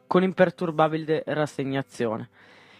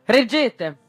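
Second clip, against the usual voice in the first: raised, higher and louder command; shouted order; 6 semitones higher, 5 dB louder than usual. A narrator's reading. Skipper calling to crew as he grabs the towline, shouted order. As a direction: call out one sharp order. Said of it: "gridò".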